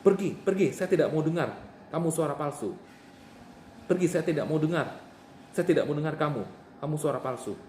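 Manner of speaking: stern shouted "Pergi" to a voice; forceful rebuke. Shown as a demonstration. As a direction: drive the voice off firmly. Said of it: "saya contohkan ya".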